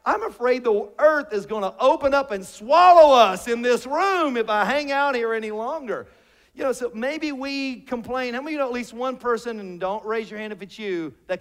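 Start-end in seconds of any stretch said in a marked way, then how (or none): 0.0-6.1 mock alarmed worshipper. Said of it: "if somebody's like".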